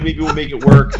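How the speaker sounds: high, put-on noncommittal voice; imitating a tightwad dodging the sale; mock cheapskate stalling. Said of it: "the cheapskate being like".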